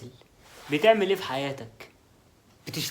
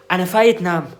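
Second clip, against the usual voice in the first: huffy announcement; 6 dB louder than usual. Acted. Storming off to bed in a huff.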